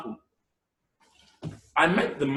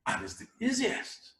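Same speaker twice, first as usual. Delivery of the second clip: easiest said high and soft; high, quiet easiest; higher, softer demo take; 7 semitones higher, 8 dB quieter than usual. Shown as a demonstration. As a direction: lift easiest up and drop the volume. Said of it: "I'm going to tell you just one".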